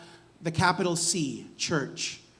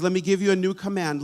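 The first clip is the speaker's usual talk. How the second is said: a bit faster and livelier as Jesus; Jesus speaking; 4 dB louder, faster than usual. Acted. Pastor voicing Jesus to his listeners, lightly acted. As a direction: say it as Jesus speaking to you directly. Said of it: "imagine Jesus saying this to you".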